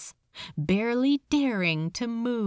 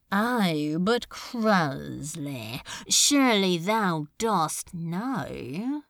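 slow, mocking archaic demon; lightly voiced demon lord; 2 semitones lower, slower than usual. Beelzebub toying with cowering Crowley, lazy menace. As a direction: savor the words like a bored tyrant.

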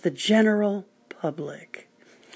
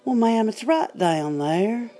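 southern gentleman; 3 semitones higher than usual. Retold or imitated. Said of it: "a nice southern sounding, uh, gentleman said".

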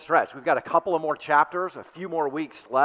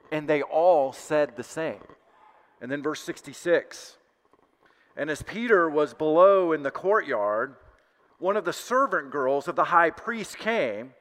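measured, deliberate Bible reading with pauses; scripture reading. A narrator's reading. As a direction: read scripture aloud to a congregation, unhurried. Reads scripture aloud to congregation.

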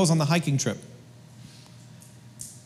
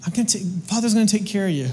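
kindly; 4 dB quieter, much faster than usual. Retold or imitated. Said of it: "he talked to us so kindly".

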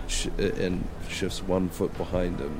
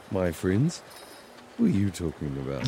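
feigned innocence; 4 dB quieter, faster than usual. Acted. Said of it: "Poe smiles a big smile".

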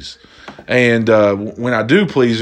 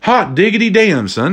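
high, gleeful "hot diggity damn"; delighted exclamation; 5 semitones higher than usual. Real, not acted. Vlogger thrilled by his water-to-beer idea, high and gleeful. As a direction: whoop it with delight.

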